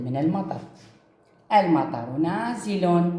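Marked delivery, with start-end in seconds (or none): 1.5-3.1 slow reading. Shown as a demonstration. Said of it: "شوفوا هاي".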